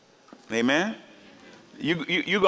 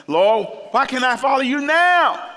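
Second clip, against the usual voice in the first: high, slow, pleading voice of Peter, louder; begging to follow, pitched up high; 12 semitones higher, 7 dB louder than usual. Acted. Peter begging Jesus to let him follow, high and pleading. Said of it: "Peter said unto him".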